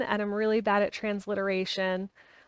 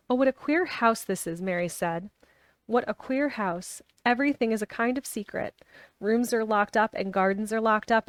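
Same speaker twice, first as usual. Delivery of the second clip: reading a novel aloud; steady storytelling read; story narration; 3 dB louder than usual. A narrator's reading.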